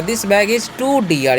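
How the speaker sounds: very slow, word by word; slow classroom dictation; slow example sentence. Shown as a demonstration. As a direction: read it out slowly for learners. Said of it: "ऐसे ही बोल सकते हैं".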